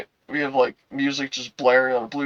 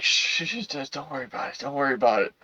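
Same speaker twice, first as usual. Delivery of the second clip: hushing; 5 dB quieter than usual. Retold or imitated. Girl hushing him.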